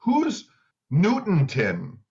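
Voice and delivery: high-pitched "Who's", then a drawn-out, slow "Newtonton?"; playfully imitating the psychic calling out a name; mock psychic call.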